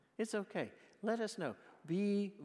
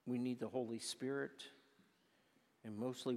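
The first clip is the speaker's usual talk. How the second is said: prayer; 2 semitones lower than usual. Acted. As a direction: ask God humbly for strength. Closing prayer.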